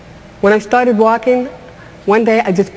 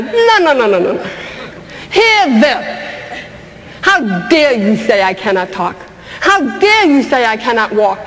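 defiant refusal; 3 semitones higher than usual. Real, not acted. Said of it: "This is where I learned how to say".

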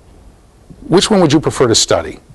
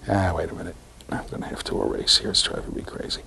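muttered aside; 7 semitones lower, 13 dB quieter than usual. Real, not acted. Muttering to himself at board.

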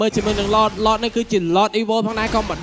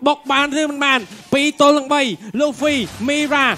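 live play-by-play; 3 semitones higher than usual. Real, not acted.

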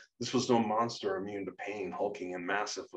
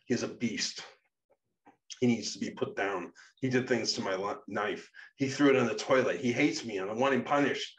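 raised, heated accusation; angry complaint; 3 semitones higher, 4 dB louder than usual. Acted. Guardian complains to a friend about Shadow, angrily. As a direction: vent about someone who has wronged you. Character rants about the one he hates.

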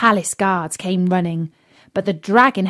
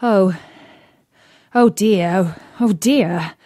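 worried. A narrator's reading. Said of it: "he was even more worried".

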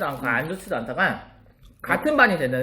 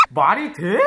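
laughing disbelief; slower than usual. Retold or imitated. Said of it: "약간 이런 거 있지".

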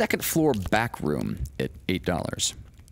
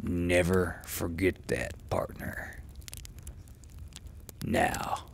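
cold menacing whisper; 5 dB quieter than usual. Acted. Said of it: "with his old freezing smile".

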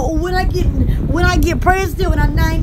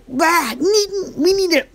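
Alabama country talk. Retold or imitated. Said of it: "They say".

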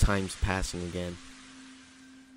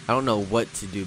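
loud, mildly panicked plea; scared urging; 4 dB louder than usual. Acted. Scared game character urges friend to act, mild panic. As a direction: urge your friend to act, a touch rattled.

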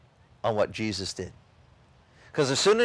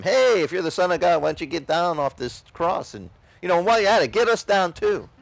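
1 mild mocking; 3 semitones higher than usual. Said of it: "the other thief is mocking him".

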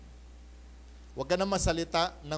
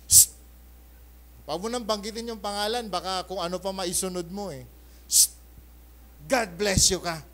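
shushing sweet blessing; 2 semitones higher than usual. Shown as a demonstration. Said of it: "Sasagot daw ako ng ganito".

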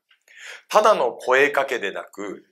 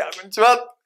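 brisk, raised hello, higher pitch; fresh, loud greeting; 5 semitones higher, 4 dB louder than usual. Shown as a demonstration. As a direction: greet them brightly and loud. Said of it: "爽やかな大きな声で".

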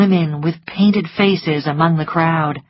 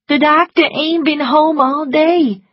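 higher, louder servant voice; maid voice; 10 semitones higher, 5 dB louder than usual. A narrator's reading. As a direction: report it in a rush. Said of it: "she reported".

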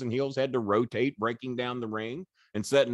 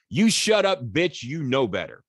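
mock yell, sharp and louder; retold angry yell; 2 semitones higher, 5 dB louder than usual. Wrestler telling his girlfriend to shut up, mock angry yell. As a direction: snap at her like a furious boyfriend.

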